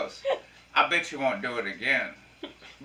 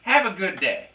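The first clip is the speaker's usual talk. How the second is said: loud, high fake enthusiasm; sarcastic cheer; 7 semitones higher, 8 dB louder than usual. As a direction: gush sarcastically, way too bright. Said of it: "I act like they said something".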